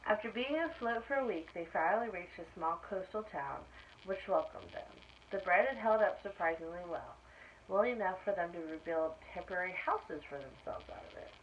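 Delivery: put-on lively read-aloud for children; animated story reading; storybook narration. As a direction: tell it like a bedtime picture book. Reads picture book aloud.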